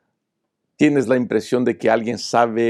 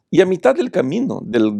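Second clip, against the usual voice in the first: usual speaking voice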